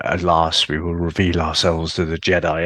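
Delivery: lightly voiced posh English stage actor; a hint of a grand Shakespearean reading; Darth Maul thespian voice. Podcaster imitating the cartoon villain, lightly posh thespian. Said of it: "real posh English accent".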